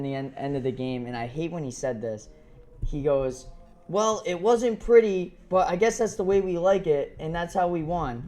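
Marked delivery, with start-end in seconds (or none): 3.9-8.2 nerdy voice. Retold or imitated. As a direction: imitate a nerdy quarterback. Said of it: "Sounded like a nerd".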